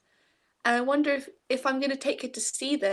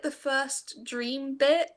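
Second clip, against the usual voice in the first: ordinary talk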